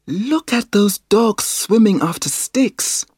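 put-on a child's excited pointing-out; Biff. A narrator's reading. Biff points the swimming dogs out to Mum, child voice. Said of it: "said Biff".

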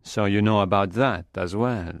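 mildly pensive question; thoughtful. A narrator's reading. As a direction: think it over as you ask. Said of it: "Raoul said thoughtfully".

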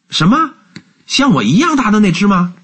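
put-on very high child's voice; high-pitched, wondering kid; astonished boy. A narrator's reading. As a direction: ask as a little boy amazed. Boy reacts in surprise.

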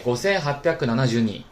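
linked up smoothly. Shown as a demonstration. Teacher recaps the whole number, 五千八百七十二 linked smoothly in Japanese. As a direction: run 五千八百七十二 together in Japanese without stretching. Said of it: "连起来".

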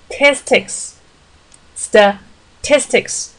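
Statistics said slowly, stress on the second syllable; slow model of Statistics with stress late; stress on the end. Shown as a demonstration. Teacher models the stress of Statistics. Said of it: "重音是在后面的".

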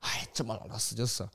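quiet mock of grandma accepting death; quoting grandma. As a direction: let it drop softly like an unbothered old woman. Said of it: "你知道我奶奶说啥吗".

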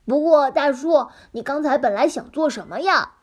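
curious little pig asking; piglet voice. Acted. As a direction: voice the pig's innocent question. Piglet asks fox.

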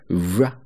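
r said slowly and with force; forceful r. Shown as a demonstration. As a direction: put effort into the r. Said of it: "一定要用力才能发准啊". (用力发r音)

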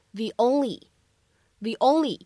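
"the only" said as "thee only", the stressed and linked into the vowel. Shown as a demonstration. Teacher demonstrating "thee only" linking for learners, slow and clear. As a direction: say "the" as "thee" and glide straight into "only". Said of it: "我们可以读成the only".

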